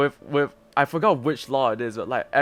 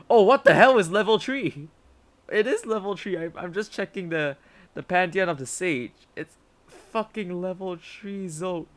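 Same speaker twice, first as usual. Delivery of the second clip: shocked disbelief; 7 semitones higher than usual. Real, not acted. Disbelief at boss level.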